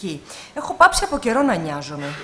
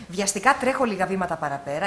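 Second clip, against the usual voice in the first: plain reading voice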